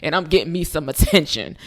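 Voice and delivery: mock smugness, gloating with a chuckle; smug smirk. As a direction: play him smirking and superior. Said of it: "he smirked a whole lot".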